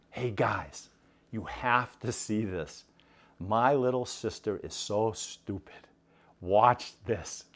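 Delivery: hushed teasing to his friends; big brother quietly sets up a prank for his friends. Acted. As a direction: lean in and keep it down, sly.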